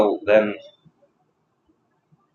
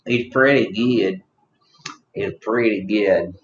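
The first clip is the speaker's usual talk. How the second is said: slow, lightly put-on country accent; 3 semitones lower, slower than usual. Tavern drinker praising the drink, slow country accent. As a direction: drag it out with a country twang. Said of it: "you said country".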